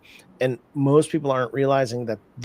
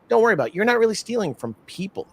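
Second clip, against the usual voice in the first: higher-pitched, lightly acted brush-off of any guilt; mock reassurance; 8 semitones higher, faster than usual. Scammer trainer soothing a recruit's conscience, mock reassuring. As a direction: wave the worry away as a scammer trainer.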